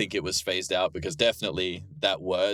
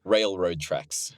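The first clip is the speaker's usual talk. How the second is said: slow, lower Australian "railroad tracks"; Australian accent; 4 semitones lower, 3 dB quieter, much slower than usual. Shown as a demonstration. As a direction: say it in a roomy Australian accent, drawn out. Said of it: "how do you say it in Australian?".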